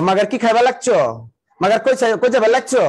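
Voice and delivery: lightly put-on Old Dhaka accent; Old Dhaka Bengali, slightly lifted; Old Dhaka dialect. Shown as a demonstration. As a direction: do a bit of Old Dhaka street talk. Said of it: "পুরান Dhaka".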